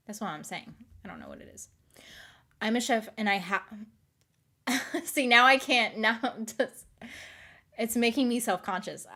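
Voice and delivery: usual speaking voice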